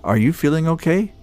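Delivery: friendly small talk from the next cubicle; chatty coworker Jerry. Acted. Jerry voiced in the story.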